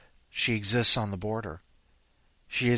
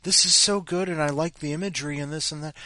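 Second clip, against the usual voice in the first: mock praise; 6 semitones higher, 3 dB louder, faster than usual. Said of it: "empty robotic praise".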